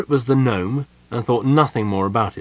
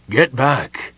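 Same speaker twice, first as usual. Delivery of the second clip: forceful, ghostly command; dreadful whispered shout; 3 semitones higher, 4 dB louder than usual. Acted. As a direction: order them back in a hushed shout. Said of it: "shouted in that dreadful whisper".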